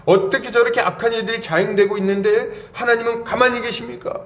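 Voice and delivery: high-pitched, indignant challenge; angry protest. Acted. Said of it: "이렇게 하면서 막 화를 내는 거죠". (높은 목소리로 따지듯 화내는 흉내)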